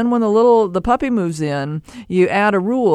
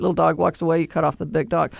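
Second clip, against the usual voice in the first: ordinary delivery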